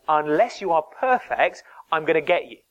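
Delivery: mild mock threat from a tyrant; harsh overlord. Preacher voicing a harsh overlord threatening the church, mildly menacing. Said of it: "harsh overlord saying".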